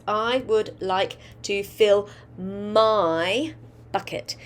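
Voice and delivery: slow, stretched sentence for dictation; slow dictation to young pupils. Shown as a demonstration. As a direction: say each word slowly for the class to write.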